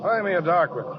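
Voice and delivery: drowsy mumbling from a dream; talking in sleep. Acted. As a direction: murmur half asleep. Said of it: "you were sleeping and you talked".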